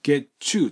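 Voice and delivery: "ゲッチュー" with T and Y merged into chu; T-Y liaison. Shown as a demonstration. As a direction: link "get you" as "ゲッチュー". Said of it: "TとYのくっついた時".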